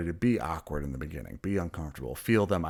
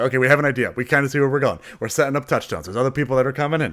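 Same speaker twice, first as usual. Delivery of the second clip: eager improv voice; 6 semitones higher, 8 dB louder, faster than usual. Retold or imitated. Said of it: "You're just both like".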